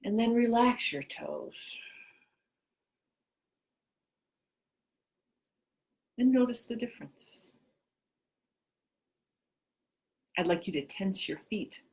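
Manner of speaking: measured instructions with long pauses; guided relaxation. Real, not acted. Teacher leading listeners to tense and relax, guided relaxation. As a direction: give each cue, then leave silence to follow it.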